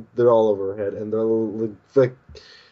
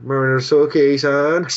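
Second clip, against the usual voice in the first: loud, raised, urgent plea; Shinpachi; 2 semitones higher, 5 dB louder than usual. Retold or imitated. Sidekick begging the hunter for help, urgent. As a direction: appeal to the hunter, stumbling on the name. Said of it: "Shinpachi goes".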